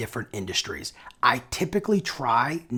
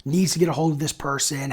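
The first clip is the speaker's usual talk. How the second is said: ordinary delivery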